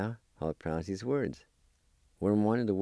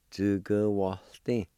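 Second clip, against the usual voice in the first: slow review; slower than usual. Shown as a demonstration. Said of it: "I'll pronounce these words one more time".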